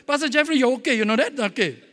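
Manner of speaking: loud, upbeat encouragement to himself; cheerful self pep talk. Retold or imitated. The pastor acting out the pep talk he gives himself, loud and upbeat. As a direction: cheer yourself on, ending in a chuckle.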